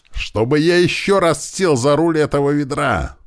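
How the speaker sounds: high angry yell, fed up. A narrator's reading. Driver yelling as he climbs out of the van. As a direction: bellow it, sick of the old van. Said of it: "заорал Туман".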